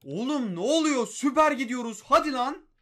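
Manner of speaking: loud, rising excited yells; thrilled cheer at a big pull; excited shouting. Real, not acted. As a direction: shout with joy at the good pull. Great pack suddenly appearing.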